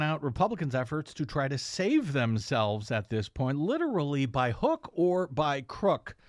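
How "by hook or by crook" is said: "crook" set apart at the end; stress on crook. Real, not acted. Commentator underlining a dig at Republicans, stress on "crook". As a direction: lean on the word "crook". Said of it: "emphasis on crook".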